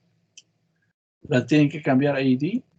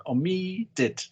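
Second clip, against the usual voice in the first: "Omitted" higher, with MIT long; stress on second syllable; 4 semitones higher, 3 dB quieter than usual. Shown as a demonstration. Teacher explains doubling the consonant, "Omitted" stressed on MIT. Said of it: "el acento en la segunda sílaba".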